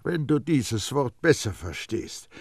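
high, loud schoolmasterly perfumer; Baldini lecturing. A narrator's reading. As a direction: explain it like to a dunce. Baldini explains the formula.

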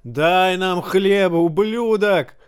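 high, slow, angry demand. A narrator's reading. Hungry man demands bread from the king, high and angry. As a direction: drag it out with hatred. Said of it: "заревел мужчина".

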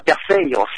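Greek-style Perseus; Greek pronunciation. Shown as a demonstration. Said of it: "tiếng Hy Lạp là".

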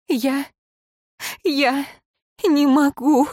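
high, strained, breaking cry; anguished wail. A narrator's reading. Woman clinging to her dying lover, wailing in anguish. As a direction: let it tear out of her in pieces. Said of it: "с надрывом провыла она".

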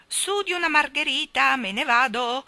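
high, loud, drawn-up cry; exclaimed take-off. Acted. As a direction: call out as you are carried away. Bird woman is lifted away.

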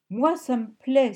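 plus haut, plus fort, lent et ravi; s'écrier avec enthousiasme de fillette; exclamation enthousiaste. A narrator's reading. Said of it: "s'écria Sharon enthousiaste". (s'écrier, ravie et enthousiaste)

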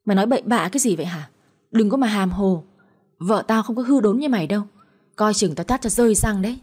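ordinary delivery, nothing marked

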